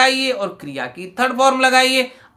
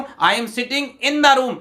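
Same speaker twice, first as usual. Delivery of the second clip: slow example reading; 4 semitones higher, much slower than usual. Shown as a demonstration. Teacher reads example sentence.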